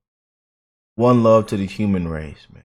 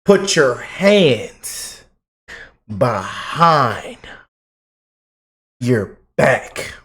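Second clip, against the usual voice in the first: mock police command; much slower than usual.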